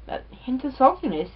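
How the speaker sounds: talking between bites; chewing while talking. Real, not acted. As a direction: mouth partly full. Seen 1: Cheeks full and lips pursed from chewing before and early in the words.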